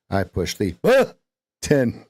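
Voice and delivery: slow, button leaned on; stress on BUTTON. Shown as a demonstration. Coach slowly stresses button. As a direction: push on button. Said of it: "we could put an emphasis on any syllable".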